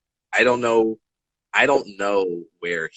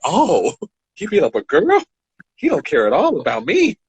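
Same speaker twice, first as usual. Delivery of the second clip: laughing disbelief; 8 semitones higher, 6 dB louder than usual. Real, not acted.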